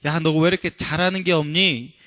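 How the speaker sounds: lightly acted telling-off; mock scolding. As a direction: scold in a mild, put-on way. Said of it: "이러면서 꾸짖지 않으셨어요".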